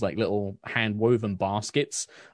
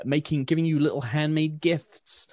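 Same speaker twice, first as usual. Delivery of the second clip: normal talking voice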